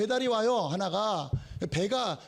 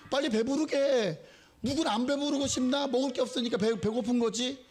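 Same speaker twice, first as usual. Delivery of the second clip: mock nagging; 4 semitones higher than usual. Mocking empty advice to poor.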